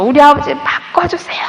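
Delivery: high, pleading cry of resentment; bursting with resentment. Retold or imitated. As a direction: let the pent-up anger burst out. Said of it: "아주 울분이 터져서".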